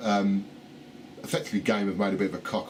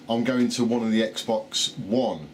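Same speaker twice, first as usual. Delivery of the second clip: slurred, struggling over the words; tongue tripping on loose teeth; loose dentures; slower than usual. Real, not acted. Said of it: "put my teeth back in".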